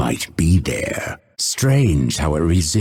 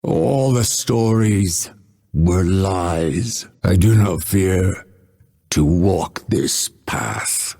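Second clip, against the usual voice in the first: halting last words, broken by long pauses; dying words. Acted. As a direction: struggle to get each phrase out as life fades.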